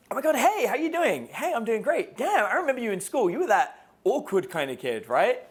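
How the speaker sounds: loud, high, brash greeting; guy acting a brash flirt, loud and teasing; cocky guy.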